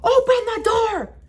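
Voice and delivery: high, forceful command; imitated police shout. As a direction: call it through a door like a cop. Officer banging, demanding entry.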